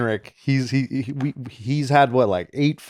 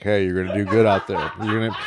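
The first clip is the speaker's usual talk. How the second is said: calm coach; 6 semitones lower, 5 dB quieter than usual. Retold or imitated. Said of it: "the guy that's like".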